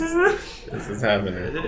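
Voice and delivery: laughing. Real, not acted. Said through laughter.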